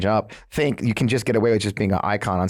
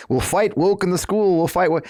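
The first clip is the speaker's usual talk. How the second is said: pitched-up parody of a stump speech; mock DeSantis speech; 8 semitones higher than usual. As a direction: ham up a Churchill-style rally line. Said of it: "that whole woke speech he did".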